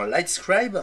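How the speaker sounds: Lightscribe said with an English accent. Real, not acted. A vlogger reading the drive's label, English accent. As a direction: give Lightscribe an English accent in the middle of French. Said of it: "J'adore mon petit accent anglais".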